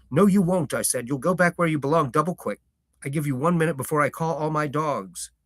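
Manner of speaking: country farmer shooing a stranger off his lane; gruff farmer. Acted. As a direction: warn off a stranger, firm and blunt. Farmer voiced in story.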